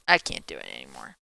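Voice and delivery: words stretched by a yawn. Real, not acted. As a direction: talk through a big yawn. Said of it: "I'm yawning again".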